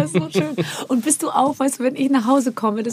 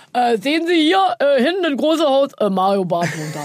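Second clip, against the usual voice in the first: higher tour-guide taxi driver, ending in a laugh; mock taxi driver; 3 semitones higher than usual. Guest imitating a Berlin taxi driver pointing out Mario Barth's house. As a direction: act the proud Berlin cabbie pointing out a house. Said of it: "da sagte der Taxifahrer zu mir".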